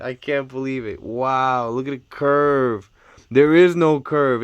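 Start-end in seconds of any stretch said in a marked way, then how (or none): 3.3-4.4 astonished. Real, not acted. Astonished, the curve is gone.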